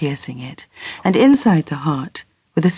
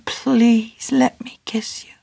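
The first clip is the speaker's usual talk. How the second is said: put-on a young man whispering to the girl he loves; tender whisper; 6 semitones higher, slower than usual. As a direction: ask for the kiss in a slow hush. Edwin asks tenderly for a kiss.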